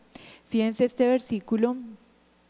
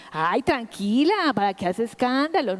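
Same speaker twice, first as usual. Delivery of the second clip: mock dismissive. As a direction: wave off her grief as if it were fuss. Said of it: "Jesús no es como".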